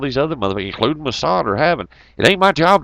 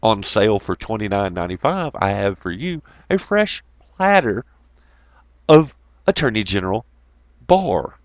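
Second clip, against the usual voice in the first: mock salesman Lionel; 4 semitones lower than usual. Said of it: "And then Lionel says".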